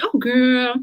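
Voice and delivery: mock cheery friend. Imitating a friend brushing off a cancer diagnosis, mock upbeat. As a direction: gush "girl" like a too-positive pal. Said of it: "do not appear so positive or light".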